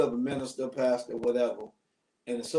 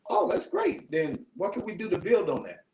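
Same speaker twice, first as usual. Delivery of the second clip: imitating the woman; 6 semitones higher than usual. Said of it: "she was like".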